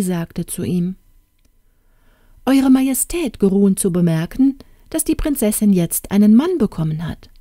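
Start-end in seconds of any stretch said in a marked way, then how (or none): 2.5-7.3 lightly voiced fairy, higher pitch; fairy's announcement. Fairy informing the king of the marriage, formal announcement.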